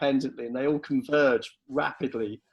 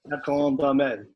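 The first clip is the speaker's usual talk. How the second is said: hammed-up Spanish accent on the name. Shown as a demonstration. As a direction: roll La Grande Armée in a Spanish accent. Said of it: "do that again with your Spanish accent".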